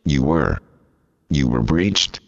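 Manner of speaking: text-to-speech voice; robot voice. Pretend. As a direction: talks like a computer reader. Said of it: "this preposterous computer talking thing".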